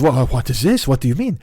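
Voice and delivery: put-on puzzled passenger in light French accent; mock French accent. French passenger questioning driver's remark, mock French accent. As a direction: imitate a baffled Frenchman's accent. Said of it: "stop the tortured French accent now".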